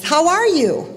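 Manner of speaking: high swooping echo; echoing call. Retold or imitated. Echo answering the father's question, high swooping call. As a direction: send the call back like an echo. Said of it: "the voice comes back and says".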